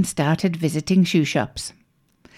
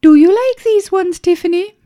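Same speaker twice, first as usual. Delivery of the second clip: mother voice; 12 semitones higher, 5 dB louder than usual. Acted. Mother asking in shop.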